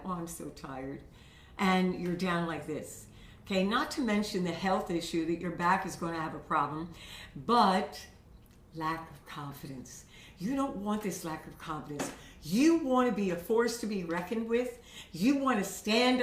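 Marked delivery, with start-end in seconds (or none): 0.1-1.0 low, soft weary sigh of a line; tired. Acted. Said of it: "We're wearing that tiredness that we have". 8.8-12.1 low, soft, deflated delivery; lacking confidence. Shown as a demonstration. Demonstrating slumped, unconfident posture.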